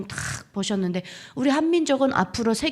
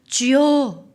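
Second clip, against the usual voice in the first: louder, drawn-out call to the Lord; raised, fervent cry; crying out in prayer; 3 semitones higher, 7 dB louder, much slower than usual. Retold or imitated. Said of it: "외칠 수 있고".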